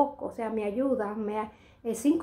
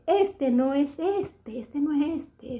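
slow explaining; 4 semitones higher, much slower than usual. Retold or imitated. Attendant comparing models.

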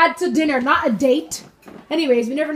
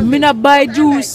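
slow, hammed-up pidgin voice; mock broken English; 5 dB louder, slower than usual. Mom jokes to family about never buying juice, hammed-up pidgin. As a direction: play a stubborn cheap man, slowly. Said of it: "mock broken English".

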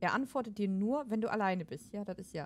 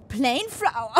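laughing; 2 semitones higher, 8 dB louder, slower than usual. Real, not acted. Laughing attempt.

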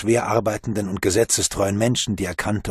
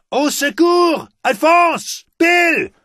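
very high, loud full-throated shout; bellowing for help; 7 dB louder, much slower than usual. Acted. Bruno bellows for help across the campsite, shouting. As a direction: yell as loud as you can for help. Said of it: "brüllte, so laut er konnte".

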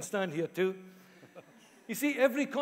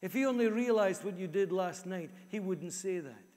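lightly voiced inner critic, kept low; accusing inner voice; 3 semitones lower than usual. Inner critic answers a compliment to the preacher, mildly accusing. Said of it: "internal voice is also saying to me".

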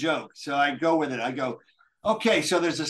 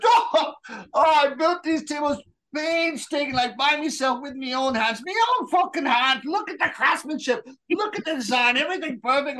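a proud Scots craftsman getting heated, in a raised Scottish voice; Scottish brogue, worked up; 4 semitones higher than usual. Acted. McGregor rants about his tables.

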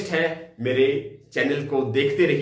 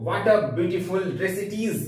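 slow exclamation; 4 semitones higher, much slower than usual. Shown as a demonstration. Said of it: "sign of exclamation".

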